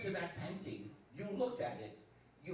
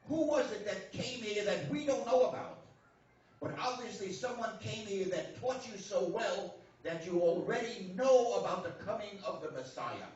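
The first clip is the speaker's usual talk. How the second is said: louder, pressing the question home; emphatic questioning; 3 semitones higher, 7 dB louder than usual. Acted. Priest pressing his Chinese friend, loud and insistent. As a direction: lean in and demand an answer.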